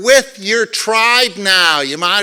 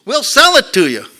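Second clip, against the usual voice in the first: loud, high mock Korean accent; hammed-up Korean shop owner; Korean storekeeper; 11 semitones higher, 8 dB louder than usual. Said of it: "it was Korean".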